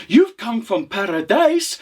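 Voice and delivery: high, amazed question; startled. Acted. Widow questioning the traveller, startled. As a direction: ask it in rising disbelief. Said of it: "startled at the man".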